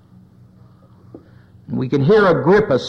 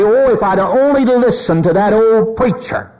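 higher-pitched lament, mildly acted; mock regretful cry; 5 semitones higher than usual. People of Noah's day regretting they ignored Noah, mild lament. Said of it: "hear them begin to cry and say".

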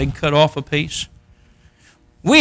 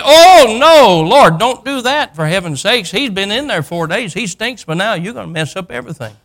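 loud, high "oh no", easing into fussing; hammed-up alarmed protest; 5 semitones higher, 4 dB louder than usual. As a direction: play a horrified sister objecting, pitch way up. Martha objects at the tomb.

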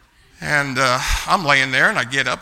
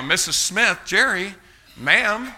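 annoyed; 6 semitones higher, slower than usual. Retold or imitated. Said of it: "She's annoyed".

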